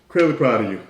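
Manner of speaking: lightly voiced proud father; a hint of a working-class dad beaming. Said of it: "Dad goes".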